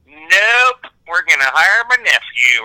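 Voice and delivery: curt, loud brush-off, a bit slow; dismissive producer. Retold or imitated. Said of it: "somebody comes in and goes".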